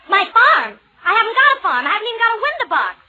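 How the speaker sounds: shocked alarm. Acted. Liz panics about farm visit.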